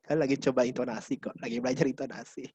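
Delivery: low register. Shown as a demonstration. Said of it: "dengan nada tinggi atau nada yang rendah".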